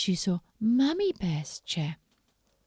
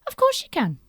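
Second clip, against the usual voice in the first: Little Red Riding Hood; 11 semitones higher, 7 dB louder, faster than usual. Acted. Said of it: "Little Red Riding Hood said".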